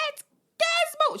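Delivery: put-on high, slow, hushed child's wonder; childlike wonder. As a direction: say it like a small child seeing her lost pet. Child retelling seeing cat.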